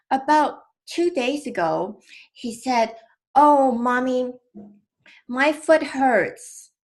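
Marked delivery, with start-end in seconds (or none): 3.4-6.7 put-on high, drawn-out child's complaint; mother imitating her son's slow high whine; whiny little boy. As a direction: play her young son whining about his sore foot. Son complaining his foot hurts.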